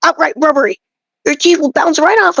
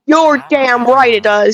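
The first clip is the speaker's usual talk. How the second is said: emphatic shout; much slower than usual. Acted. Emphatic agreement in bread rant.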